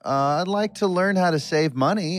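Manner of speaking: a light put-on Australian accent; chirpy Aussie greeting, lightly played; mild mock Australian accent. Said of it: "somebody from Down Under joining us".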